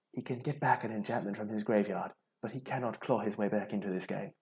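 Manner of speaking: lightly put-on commentator's accent; Riley Knight accent. Player commentating on his doomed opponent, lightly put-on commentator accent. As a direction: slip into a changed accent for mock match commentary. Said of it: "I don't know why I changed my accent".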